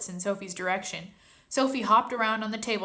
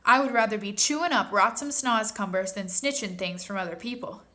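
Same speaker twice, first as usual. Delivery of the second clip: proud; 5 dB louder than usual. Acted. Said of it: "raised his head proudly".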